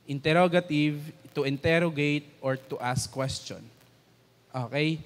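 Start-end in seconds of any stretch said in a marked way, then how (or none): none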